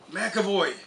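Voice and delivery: mock stern shout from across the field; fake angry shout. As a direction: bark the name like he's in trouble. He sees I'm mad.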